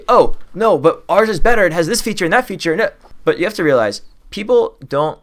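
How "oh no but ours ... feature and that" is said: high, loud, flustered pitch; over-keen salesman protesting; defensive gut reaction. Acted. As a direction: blurt out an eager rebuttal. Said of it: "the gut reaction would be".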